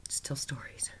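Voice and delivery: soft whispered reassurance. Retold or imitated. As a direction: say it gently, hushed.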